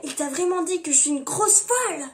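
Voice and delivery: play-acted affronted disbelief; mock outrage. Her outraged part in run-through.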